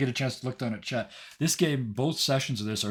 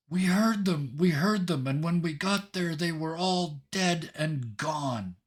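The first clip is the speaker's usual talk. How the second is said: high, raised cry drawing out the last words; distant yell; 6 semitones higher than usual. Acted. Adventurer yelling news at the city gate, high raised cry. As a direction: call it out across a city, pitched high. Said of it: "one clear voice yell out".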